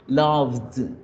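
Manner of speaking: loved said ending on a d sound. Shown as a demonstration. Teacher shows the d ending of loved, voiced d. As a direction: close loved with a d. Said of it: "con el sonido de la D".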